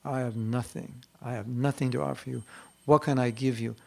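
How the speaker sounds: imitating a tearful offering, understated; Prabhupada pleading. Imitating a guru offering to Krishna with nothing to give, humble pleading. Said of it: "And Prabhupada is crying".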